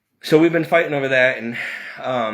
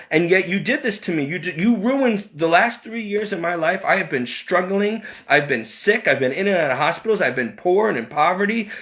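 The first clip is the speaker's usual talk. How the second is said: a mild mock yell at the family; retold angry yelling; 5 semitones higher than usual. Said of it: "I was yelling at my stepmother in the dream".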